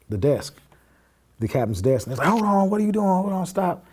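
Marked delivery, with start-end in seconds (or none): 2.3-3.8 high-pitched, urgent imitation of alarmed officers; retold alarmed intervention. Officers stopping him at the captain's desk, imitated high-pitched alarm. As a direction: mimic someone rushing in to stop it.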